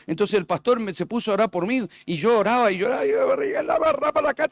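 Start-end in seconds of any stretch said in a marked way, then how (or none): 3.6-4.5 higher-pitched babble imitating praying in tongues; imitando oración en lenguas. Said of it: "empecé a gritar y hablar". (imitando hablar en lenguas, con voz aguda)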